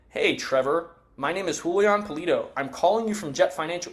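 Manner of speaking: a mild, understated robotic script read; robotic telemarketer. Shown as a demonstration. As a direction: recite it like a bored caller. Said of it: "You sound like a robot".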